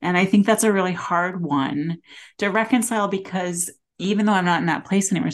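getting teary. Real, not acted. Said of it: "sorry, getting teary".

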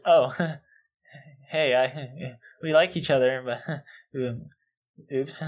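put-on timid, giggly awkward teen. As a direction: stammer like a shy crush. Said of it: "like, timid, like, awkward".

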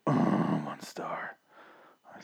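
hushed whisper; breathy secret whisper. Pretend. Mock whispered one star.

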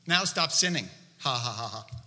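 mock-sarcastic Jesus with a teasing laugh. Jesus teases the healed man, lightly sarcastic. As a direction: toss it off as a joke, then chuckle. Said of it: "Jesus was just being sarcastic".

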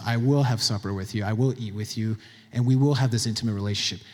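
low, softened assurance; tender promise. Acted. Preacher speaking as Jesus promising supper together, tender and low. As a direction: give a gentle, intimate promise.

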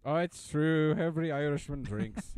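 put-on stage-Irish voice; playful fake Irish lilt; mock Irish accent. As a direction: tease in a hammed-up Irish brogue. Puts on stage Irishman for teasing.

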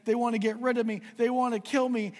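a frightened mouse cries out that they want him dead; shocked mouse. A narrator's reading. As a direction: squeak it out in outraged alarm. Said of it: "he was so shocked".

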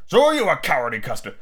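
put-on childish comeback at ordinary pitch; retorting father. Father bickers with his son, petulant retort. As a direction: throw the taunt straight back. Father throws the taunt back.

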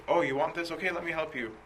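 obliging monk. Retold or imitated. Monk offers the robber his belongings, obliging. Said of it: "or getting angry, the monk was like".

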